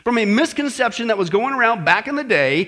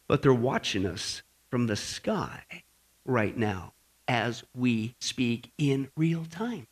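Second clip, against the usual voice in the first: very slow, soft, lower ominous warning; hushed warning; 10 semitones lower, 8 dB quieter, slower than usual. Real, not acted. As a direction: drop low and space out each word.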